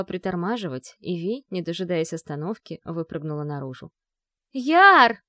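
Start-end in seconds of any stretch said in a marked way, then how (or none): 4.5-5.2 a far-carrying call, much higher and louder; anxious call. A narrator's reading. Vi calling for Yar at the bridge, anxious shout. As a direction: shout his name across the empty lot. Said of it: "её полный тревоги зов".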